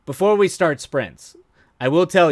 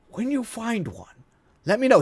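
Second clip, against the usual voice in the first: savoring the punchline; 10 semitones higher than usual. Retold or imitated. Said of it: "him going".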